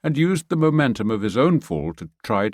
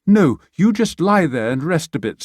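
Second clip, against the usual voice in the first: higher, louder caring insistence; firm Pia; 8 semitones higher, 6 dB louder than usual. Acted. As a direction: keep him down, firmly. Pia tends injured Sasha.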